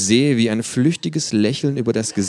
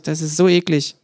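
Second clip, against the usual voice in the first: mouth full; 10 semitones higher, 6 dB louder than usual. Acted. Kangaroo character voice.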